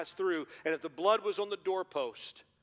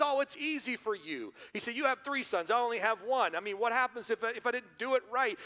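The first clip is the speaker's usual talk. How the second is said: anxious Jones; 7 semitones higher than usual. Retold or imitated. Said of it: "He goes".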